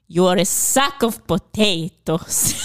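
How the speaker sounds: slow, laughing through the quoted insult; barely holding in laughter while quoting. Retold or imitated. Friend retells a movie line, laughing. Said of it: "And calls him".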